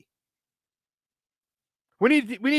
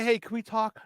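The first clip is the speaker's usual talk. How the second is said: hushed, timid imitation, much softer; soft mock request; 2 semitones lower, 10 dB quieter than usual. Mocking a player who asks his teammate too gently, hushed. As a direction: mimic a timid polite ask, very soft. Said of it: "Not say".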